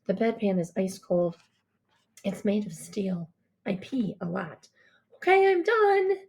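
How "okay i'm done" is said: high, drawn-out call; yell. A narrator's reading. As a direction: holler to someone in another room. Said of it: "I yell".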